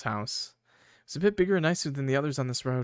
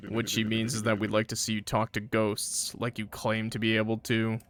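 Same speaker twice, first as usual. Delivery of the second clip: slightly lowered, measured character voice; lightly voiced explainer; 3 semitones lower, 4 dB quieter than usual. Friend clarifying the ghost request, lightly lowered voice. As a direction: explain it evenly, a little low.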